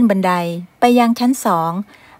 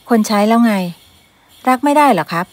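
raised pleading protest; 2 semitones higher than usual. Acted. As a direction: push back hard at mother. Son protests to mother.

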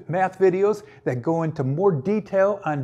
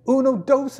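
playful Spanish count, higher and louder; 7 semitones higher, 4 dB louder than usual. Pretend. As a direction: toss off uno, dos in a light Spanish accent. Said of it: "a little Spanish out there".

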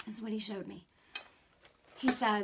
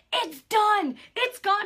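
higher, louder triumphant call; excited announcement; 11 semitones higher, 9 dB louder, slower than usual. Retold or imitated. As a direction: proclaim it, thrilled and loud. Husband announces it is gone.

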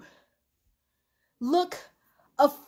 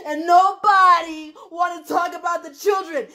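tearful shout; 2 semitones higher than usual. Real, not acted. Venting at critics who ignore the children, a tearful shout. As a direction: shout it out while breaking down.

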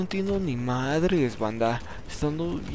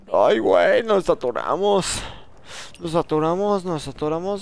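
panicked yell; 2 semitones higher, 5 dB louder than usual. Real, not acted. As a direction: yell in alarm. Stuck in game, panicking.

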